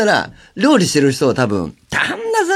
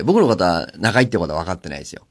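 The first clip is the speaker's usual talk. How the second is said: ordinary delivery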